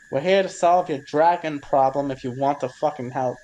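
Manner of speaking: loud but restrained exasperated yell; mock screaming. Player screams Draconic in the kobold's face, mock yell. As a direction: raise the volume without truly screaming. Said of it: "I'm still screaming this directly in her face".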